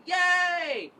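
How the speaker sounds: high, loud triumphant cheer with arms up; a big joyful whoop; mock victory cheer at the polls closing; cheering yay. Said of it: "throw my arms in the air and go".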